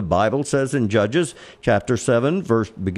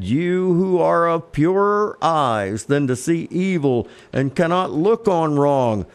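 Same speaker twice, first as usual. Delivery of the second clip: slow, higher-pitched scripture declamation; prophet's complaint; 4 semitones higher than usual. Acted. Prophet Habakkuk questions God, slow raised declamation. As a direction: draw out the words, pleading upward to God.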